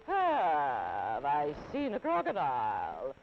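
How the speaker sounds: slow scornful snake voice. Acted. Python mocking the elephant's child, slow snake voice. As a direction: drag out the question with disdain.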